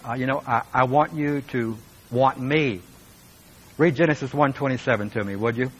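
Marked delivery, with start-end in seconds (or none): 0.5-2.8 yearning plea. Retold or imitated. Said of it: "God is just wanting us to say".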